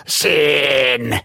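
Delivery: harsh cawed cry of a giant crow; cawing crow. A narrator's reading. The raven-creature Wroniec caws at the boy, croaking. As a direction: caw it like a menacing bird. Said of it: "zakrakał Wroniec".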